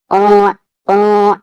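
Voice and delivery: slow اوں resonating in the nose with no n; teacher slowly modelling nasal اوں; nasal ikhfa. Shown as a demonstration. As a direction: draw out اوں, hiding the noon. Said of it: "ناک میں چھپا کر پڑھا جاتا ہے".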